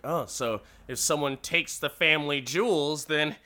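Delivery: punchline swelling high and loud; gloating dig. Retold or imitated. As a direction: deliver the jibe, building to a loud payoff. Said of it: "gets a nice little dig".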